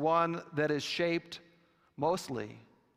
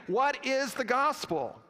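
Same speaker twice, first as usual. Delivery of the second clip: higher-pitched, pressing question; insistent demand; 8 semitones higher than usual. Retold or imitated. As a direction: demand the answer, pitched well up. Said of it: "The demand came again".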